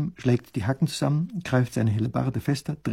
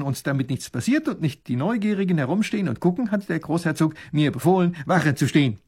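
lightly voiced soldier, higher pitched; eager soldier; 5 semitones higher, 3 dB louder than usual. Soldier recalling the pond for the princess, lightly voiced and obliging. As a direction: report eagerly to royalty.

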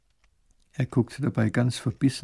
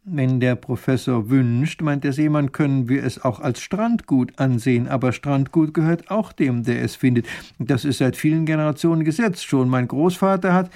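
sly sea captain; 5 dB louder than usual. Acted. Sea captain claims the ship.

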